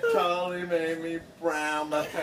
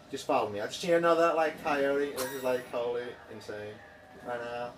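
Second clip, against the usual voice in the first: mock Quebec accent, sinking lower; put-on Canadian accent; 5 semitones lower than usual. Driver inviting officers into the sunset, mock Canadian accent. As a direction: coax in a fake Canadian accent. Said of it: "probably like a Canadian accent".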